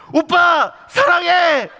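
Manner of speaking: high, loud, drawn-out mock love cry; shouted love confession. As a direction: scream your love across at him, stretched out. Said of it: "이렇게 외치고". (높고 길게 외치는 사랑 고백)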